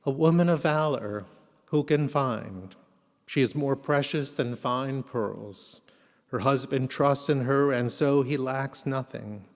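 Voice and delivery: solemn. Acted. Reads Eshet Chayil at memorial.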